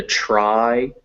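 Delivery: slow, stretched "try"; example word for I. Shown as a demonstration. Teacher giving another example of I, slow "try". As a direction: draw out the ah-to-I glide in "try". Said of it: "That makes I".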